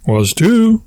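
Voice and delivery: high-pitched insistent comeback; childish contradiction. Acted. Childish back-and-forth argument.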